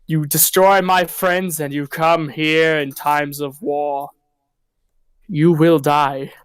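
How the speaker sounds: slow, deliberate mock-regal emperor pronouncing doom; hammed-up emperor, each word drawn out slowly; imitating Emperor Caesar. Emperor on his throne warning the invaders, slow mock-regal decree. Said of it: "Emperor Caesar sitting there on the throne going like".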